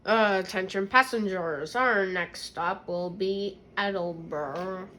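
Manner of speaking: train conductor announcement; over the intercom. Pretend. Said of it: "I'm doing our passenger".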